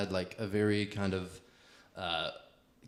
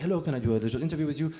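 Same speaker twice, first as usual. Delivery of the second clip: put-on French reporter accent; 4 semitones higher, much faster than usual. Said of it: "I'm like".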